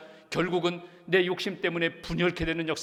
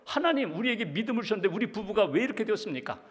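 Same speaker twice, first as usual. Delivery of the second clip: angry complaint to God; 2 semitones higher, faster than usual. Retold or imitated. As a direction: imitate a fed-up wife's complaint. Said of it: "하나님 앞에서도 막 화가 나는 거예요". (하나님께 화나서 따지듯)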